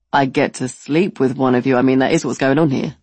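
dropped low, matter-of-fact. Retold or imitated. The guy spells out his demand, low deadpan. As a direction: say it low and plainly.

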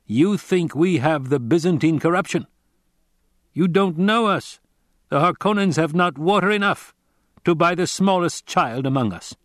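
a grave stranger giving a warning; Fremen warrior. Acted. Narrator voices the Fremen.

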